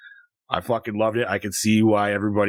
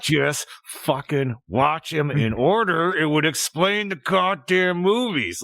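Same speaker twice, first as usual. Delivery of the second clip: slow, exasperated scolding; exasperated dad; 4 semitones higher, much slower than usual. Retold or imitated. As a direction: drag it out like a fed-up dad. Dad retells snapping at daughter.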